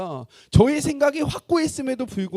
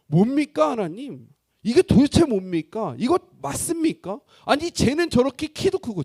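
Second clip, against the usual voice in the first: loud, raised-pitch acted complaint; resentful protest; 3 semitones higher, 7 dB louder than usual. Young man praying in resentment to God, loud indignant protest. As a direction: demand answers in indignant bursts. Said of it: "하나님 앞에 원망을 하면서".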